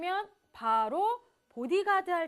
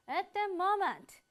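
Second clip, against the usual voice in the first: slow model reading; 5 semitones higher, much slower than usual. Shown as a demonstration. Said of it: "따라서 말해볼까요".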